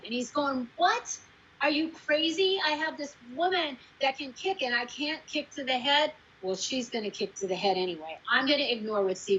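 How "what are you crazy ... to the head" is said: higher-pitched mock disbelief; retold indignant protest, pitched up; incredulous director. Director reacting to network notes, incredulous.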